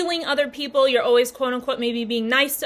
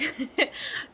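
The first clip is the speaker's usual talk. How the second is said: stifled breathy giggle; 3 semitones higher, 6 dB quieter than usual. Real, not acted. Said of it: "trying not to laugh".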